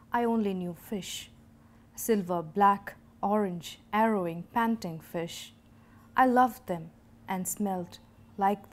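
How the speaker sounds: measured narrative poem reading; unhurried, lightly emphatic verse delivery; poetry recitation. Acted. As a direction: recite with deliberate pauses between images.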